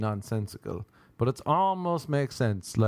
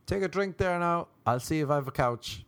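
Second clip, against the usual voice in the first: put-on drunken self; 6 semitones higher than usual. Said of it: "I think I was saying".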